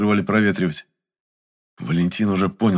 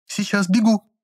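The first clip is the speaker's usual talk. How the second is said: high, flustered yelp; flustered reply. A narrator's reading. Assistant flustered by her boss's order. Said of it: "всполошилась Лизонька".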